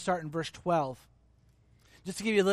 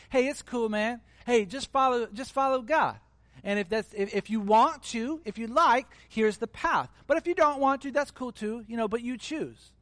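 a hint of a chill surfer-dude Jesus, pitched higher; lightly voiced easygoing Jesus, shrugging it off; laid-back Jesus; 4 semitones higher than usual. Preacher imitating a laid-back Jesus for the congregation, mild and casual. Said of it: "this sort of laissez-faire Jesus, right? Which is just kind of like".

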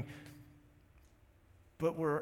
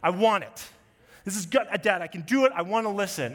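loud pleading scream, pitched up; screaming toddler; 4 semitones higher, 9 dB louder than usual. Retold or imitated. Daughter screaming to dad to escape her punishment, loud pleading. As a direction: scream it like a desperate three-year-old. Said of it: "she's screaming this at us".

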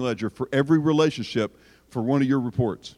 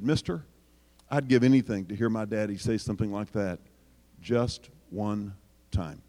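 weeping plea; 8 semitones lower, 4 dB quieter than usual. Retold or imitated. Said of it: "started weeping big crocodile tears".

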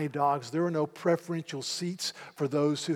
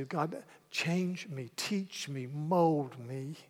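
humble prayer; 5 dB quieter, much slower than usual. Acted. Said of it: "And I say".

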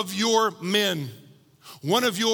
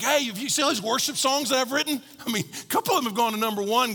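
mock brag; 4 semitones higher, faster than usual. Mock bragging about songs.

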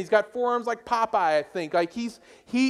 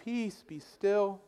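mock serene Jesus; 4 dB quieter, much slower than usual. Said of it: "he's like".

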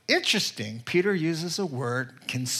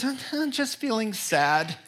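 sad wife; 6 semitones higher than usual. Retold or imitated. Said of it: "She looked so sad".

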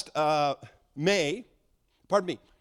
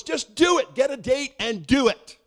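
son's voice, much higher and louder, slow on the last words; son urging; 10 semitones higher, 8 dB louder, slower than usual. Retold or imitated. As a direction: push him hard to just do it. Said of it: "He goes".

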